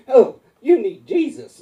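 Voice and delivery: high, drawn-out mock shout; kid's outcry. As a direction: yell it like a scandalized kid. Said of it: "this kid goes".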